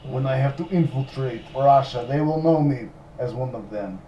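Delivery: light mock Russian accent. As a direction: boast as a comic Russian spy. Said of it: "practice Russian accent".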